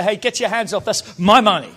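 like someone touched your money; possessive attitude. Shown as a demonstration. Pastor acting out someone grabbing his money, possessive. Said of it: "say it like someone's touching your stuff".

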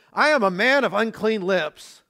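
high, loud preacher's cry, without real tears; retold crying out. Preacher voices Isaiah confessing before God, retold crying out. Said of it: "starts just weeping and crying out before God".

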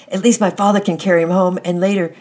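loud, high, harsh voice not her own; harsh hoarse voice. A narrator's reading. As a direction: speak in a strange, hardened voice. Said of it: "in a harsh, a hoarse voice".

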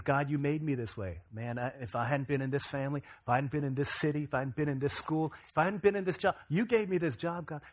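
imitated griping that climbs as it goes; blame-shifting excuses. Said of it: "Here's where many of us are".

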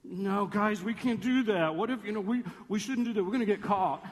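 lightly voiced worrier friend; reluctant friend. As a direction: protest the plan like the hesitant one. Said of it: "there's one you gotta have, you gotta talk into it".

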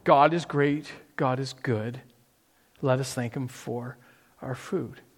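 sing-song grace, dropping away to nearly nothing; child's mealtime grace. Retold or imitated. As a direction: recite it like a child saying grace. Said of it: "we're taught to pray".

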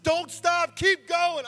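high, loud, freaking-out shouts; frantic cheering. Retold or imitated. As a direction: yell them on as if losing your mind. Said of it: "I'm freaking out. I'm losing my mind".

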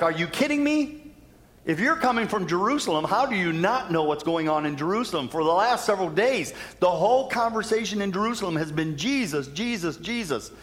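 mock astonishment at the stranger; incredulous disciples. Disciples telling Jesus they can't believe he hasn't heard, incredulous. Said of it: "they're like".

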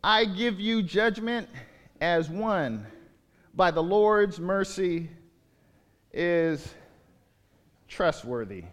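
slow, measured reading of Paul's words; slow scripture reading. Acted. Pastor reading Paul's words to the church, slow and solemn. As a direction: read it with solemn weight.

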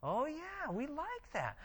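lightly voiced Pharisees, pleased; eager Pharisees. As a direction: play the Pharisees lapping it up. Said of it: "the Pharisees are like".

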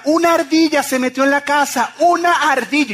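high, loud shrieked alarm; wife's panicked scream. Retold or imitated. Husband imitates wife reporting a squirrel indoors, screaming in panic. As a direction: yell it like a terrified wife. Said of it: "Y grita".

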